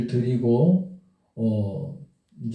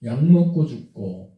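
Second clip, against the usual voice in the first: mildly indignant retort, pressing each item; retold flare of anger. Man protesting to the pastor's wife, mildly angry. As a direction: replay an angry protest with moderate force. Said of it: "화를 펄컥 내는 순간에".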